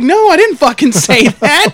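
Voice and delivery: mock-exasperated protest with a laugh breaking in; retold yelling. Manager denying what the man claimed, retold exasperated yelling. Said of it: "I'm yelling".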